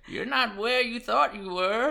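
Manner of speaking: high, put-on warning voice; ominous old gentleman. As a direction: warn like a slasher-film harbinger. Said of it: "like I'm being warned by a slasher".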